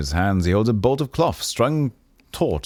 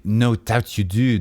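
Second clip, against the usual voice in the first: weary tailor; 2 semitones higher, slower than usual. Acted. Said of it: "The man sighs loudly".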